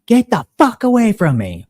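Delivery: a shrill-pitched retold screech of anger; mock angry yell. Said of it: "she starts yelling".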